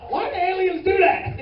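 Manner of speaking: high, loud, drawn-out question; slow, hammed-up bewildered yell; baffled outburst. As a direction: cry it out in comic disbelief. Comic outburst of bafflement at aliens.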